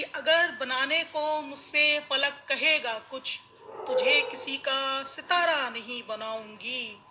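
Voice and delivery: measured mushaira verse delivery; ghazal recitation. Acted. (मुशायरे में ग़ज़ल पढ़ने का अंदाज़)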